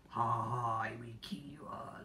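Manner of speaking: a hint of a creepy cookie whisper; lightly voiced evil gingerbread man, whispered threat. Vlogger voicing a creepy gingerbread man, hushed menace.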